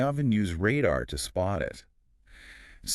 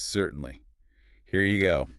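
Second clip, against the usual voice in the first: flight attendant voice. Shown as a demonstration. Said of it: "Flight attendant voice".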